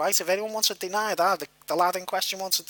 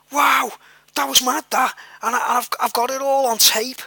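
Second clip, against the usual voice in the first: excited shout; 5 semitones higher than usual. Retold or imitated. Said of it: "He shouted".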